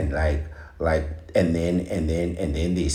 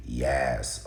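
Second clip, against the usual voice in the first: drawn-out "yes" with a New York twang; New York accent. Retold or imitated. Imitating a New York talk-show host, mock New York accent. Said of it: "she used to say".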